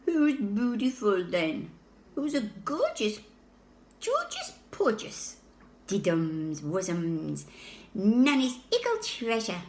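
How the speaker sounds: imitating cooing grown-ups, lightly hammed; sing-song doting relative voice; mock baby talk. Baby mimicking visitors' silly cooing, hammed-up baby talk. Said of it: "come out with a load of rubbish".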